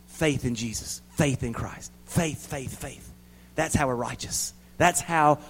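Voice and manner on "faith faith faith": fading repetition. Acted. Repeated word fading.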